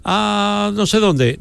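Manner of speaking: high, light mock voice of a carefree caller; imitating the caller. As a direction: tease him by playing him announcing trips. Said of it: "Yo no te escucho".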